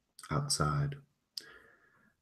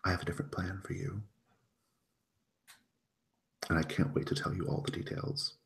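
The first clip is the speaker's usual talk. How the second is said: soft, lingering condescension; hushed, patronizing sweetness, with long pauses; infantilizing; 3 semitones higher, 6 dB quieter, faster than usual. Acted. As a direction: coo it softly, as if to a little child. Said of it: "very, like, infantilizing almost".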